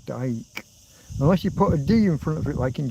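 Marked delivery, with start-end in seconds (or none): 0.0-0.6 "dike" said with a long I sound, like "dyke"; Dutch pronunciation. Shown as a demonstration. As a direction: say "dike" the Dutch way, rhyming with bike. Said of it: "the J is a Y".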